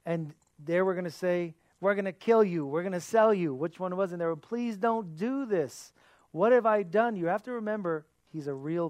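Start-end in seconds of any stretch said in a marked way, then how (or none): 1.8-3.5 raised, louder menacing threat; mock threat. Brothers threatening young Joseph, raised menacing voice. 4.4-7.1 high, slow desperate plea; pleading. Acted. Joseph begging his brothers for mercy, high desperate plea.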